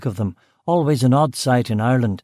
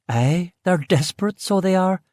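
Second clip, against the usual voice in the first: higher Belfast woman's voice, curt; brusque West Belfast cook; 7 semitones higher than usual. Acted. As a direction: Belfast woman, short with the visitor. Aileen answers.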